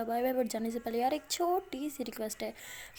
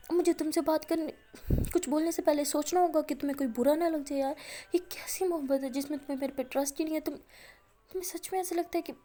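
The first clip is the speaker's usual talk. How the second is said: higher, louder pleading, slowing at the apology; begging her to forgive, voice raised; pleading girlfriend; 4 semitones higher, 4 dB louder than usual. Acted. Alia pleads with Maya not to be angry, raised pleading voice.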